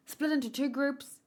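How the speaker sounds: nervous, voice rising high; hesitant, unsure order; flustered. Acted. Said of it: "he looks so flustered".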